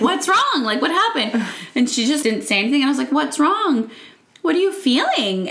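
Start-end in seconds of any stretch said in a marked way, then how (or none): 0.0-1.4 higher, urgent concerned asking; a mother anxiously checking on her child; retold worried questions. Mother asks crying child. 3.1-5.5 higher, urgent concerned asking; a mother anxiously checking on her child; retold worried questions. Mother asks crying child.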